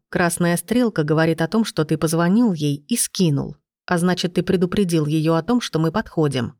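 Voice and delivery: plain reading voice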